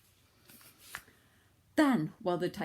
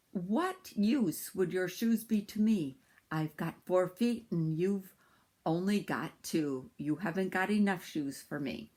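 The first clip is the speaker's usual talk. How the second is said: tiger voice. Acted. Tiger answers Sambo.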